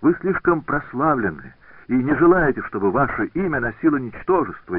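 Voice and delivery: put-on wounded girl pouring out her devotion; tearful young woman. A narrator's reading. Scotsone pleads with Benvenuto after bursting into tears, lightly tearful.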